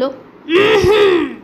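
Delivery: a mild growly threat from the lion; angry lion threatening to kill the mouse; roaring lion. Acted. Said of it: "হুংকার ছেড়ে বলল".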